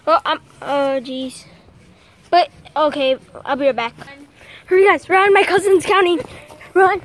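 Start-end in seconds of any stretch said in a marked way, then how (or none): 4.7-7.0 loud hurried urging; urgent shout. Real, not acted. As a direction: call out to everyone to hurry. Hurrying everyone to hide.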